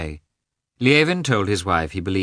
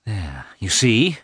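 resentful wife, slow and rising high; high, louder, wounded outburst; tearful anger; 7 semitones higher, 4 dB louder, slower than usual. A narrator's reading. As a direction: accuse through angry tears, dragging the words and climbing. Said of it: "began with tears of anger".

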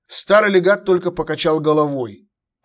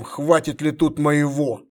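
cryptic hint; slower than usual. Acted. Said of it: "туманно намекнул император".

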